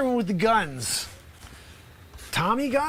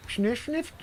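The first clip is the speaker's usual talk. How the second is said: muffled behind a hand; hand over mouth; 3 semitones higher, 5 dB quieter than usual. Acted. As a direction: talk through cupped hands. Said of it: "don't talk from behind your hands".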